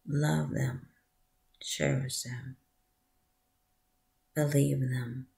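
reach out gently to the viewer; tender reassurance. Real, not acted. Vlogger comforting families facing cancer, tender. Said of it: "speaking to viewers' loved ones".

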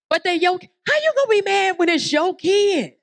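can't believe it, exclaim it; incredulous. Real, not acted. Preacher marvelling at parents mad at their kids.

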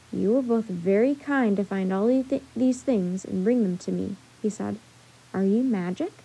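a defeated king, gently questioning; lightly voiced weary king.

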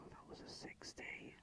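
whispered in disbelief; stunned whisper. Real, not acted. Gamer whispering at the train sim in stunned disbelief. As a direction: breathe it out, barely audible. Stunned after missed limit.

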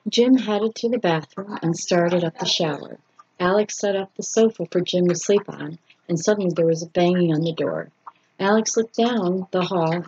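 steady storytelling read, lines lightly lifted for dialogue; story narration. A narrator's reading. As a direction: read the passage aloud with lightly acted dialogue. Reads a story passage aloud.

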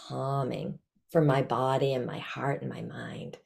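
whispered. Acted. Describing calm by the water.

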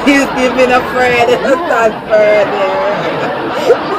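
shouting through laughter; real loud laughter; loud laughing. Real, not acted. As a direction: blurt it out while cracking up.

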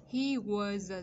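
"was a" joined through a z sound; teacher's liaison demo of "was a"; linked sounds. Shown as a demonstration. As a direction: model "He was a", carrying the z into a. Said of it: "nối âm".

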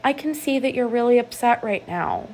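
put-on kneel down and calm an upset child; gentle, validating parent. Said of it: "looks at the child and says".

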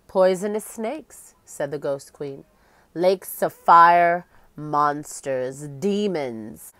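low, slow ghost queen voice; lightly voiced ghostly queen, solemn; hollow echoing voice. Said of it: "She spoke in a hollow, echoing voice".

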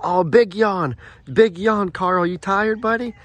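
high, doting pet talk; cooing to the cat. Real, not acted. Talking to her sleepy cat, high doting coo.

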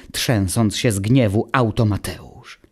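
plain reading voice

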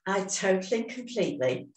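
slow, deliberate setup statement, every word placed; measured tapping affirmation; slow affirmation for repeating. Shown as a demonstration. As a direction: say it so they can echo you. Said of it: "start repeating after me".

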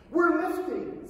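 high, loud call; excited shout. Acted. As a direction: announce the lift eagerly. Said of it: "somebody shouted".

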